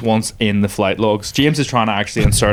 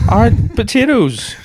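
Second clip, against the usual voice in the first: mock French accent; 12 semitones higher, 3 dB louder than usual. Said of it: "regional French accent I actually have".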